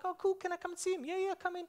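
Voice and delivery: bright, fast, high-pitched casual chatter voice; high put-on voice. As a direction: play a cheerful neighbour, pitched well up. Acted doorstep exchange about a dog.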